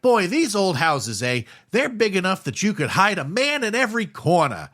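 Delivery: creepy landlady. Retold or imitated. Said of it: "Missus Thompson is like".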